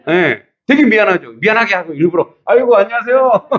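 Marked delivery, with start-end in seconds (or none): 2.5-3.5 high-pitched, effusive hello, acted out; sing-out courteous greeting; friendly greeting. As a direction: greet them with exaggerated cheer in a raised voice. Deliberately greeting the man who cursed.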